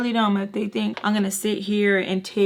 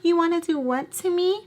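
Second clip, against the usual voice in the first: confronting; 8 semitones higher than usual. Retold or imitated. Cousins confronting boys.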